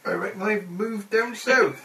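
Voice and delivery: slow West Country burr, halfway to pirate; rolling Cornish farmer voice; Cornish accent. Acted. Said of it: "a fine line between Cornish and pirate".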